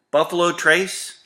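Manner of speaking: exasperated disbelief. Acted. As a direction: throw the name back in mock outrage. I don't understand you.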